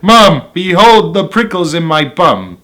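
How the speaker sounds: understated shout of alarm. Acted. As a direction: call out to Mom in mild outrage. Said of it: "I shouted".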